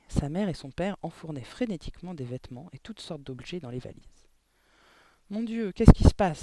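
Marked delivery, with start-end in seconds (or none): 5.3-6.4 startled exclamation, high and loud; alarmed cry. A narrator's reading. Girl walking in on frantic packing, alarmed cry. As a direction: cry out in shock, pitched up. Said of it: "s'écria-t-elle".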